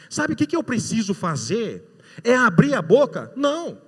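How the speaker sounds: high, loud preaching with slowed peaks; fervent preaching. Acted. Preacher testifying to the congregation, full force.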